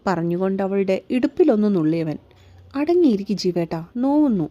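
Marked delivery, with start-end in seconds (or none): 2.7-4.5 mild "ow, stop it" whine; pinched protest. Acted. Pinched woman protests to her lover.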